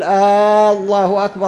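آه الله أكبر with a stretched آه that sounds like a question; wrong questioning call. Shown as a demonstration. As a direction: lift آه like asking. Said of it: "هذا استفهام".

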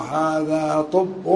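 طب as "ṭubbun", u after the heavy ṭ; damma on ṭā'. Shown as a demonstration. Teacher shows students the u form, طب as ṭubbun. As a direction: draw out "هذا", then say طب with a short u. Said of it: "بضم الطاء".

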